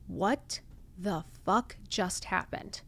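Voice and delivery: slow, soft, dazed disbelief; stunned hush. Retold or imitated. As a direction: breathe it out in shock. After Michael leaves the room.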